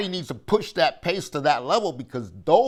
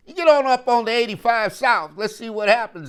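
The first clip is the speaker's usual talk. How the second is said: excited urging; 8 semitones higher, 5 dB louder than usual. Real, not acted. Urging fans to road trip.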